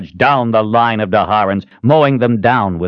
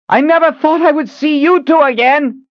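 high, raised galloping shout; yelling over hooves; 4 dB louder than usual. A narrator's reading. Rider greeting two rescuers over hoofbeats, yelling. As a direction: call out above the din. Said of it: "she yelled over the sound of hooves".

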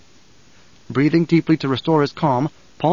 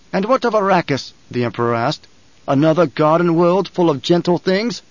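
mocking sneer; 3 semitones higher than usual. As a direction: throw his words back mockingly. Emperor mocks Paul's promise.

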